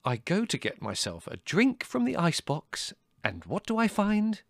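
high, indignant build-up; exasperated ranting. A narrator's reading. Son telling mother about the icebox, exasperated.

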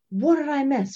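first eager ask; eager question. Retold or imitated. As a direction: she hates missing out. Midwife eager to hear the news.

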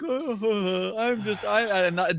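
oblivious cyclist. Retold or imitated. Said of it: "totally oblivious".

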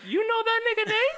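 high, put-on white girl voice. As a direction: chirp it like a white party girl. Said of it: "She said it just like that".

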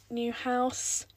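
slow, cheesy catchphrase delivery; cheesy slogan. Shown as a demonstration. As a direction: drawl it like a cringy motto. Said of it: "that's so cringy".

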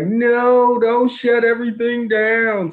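high, loud urgent protest; mock frantic plea. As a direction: burst in begging them to stop. Frantic memo-runner pleading.

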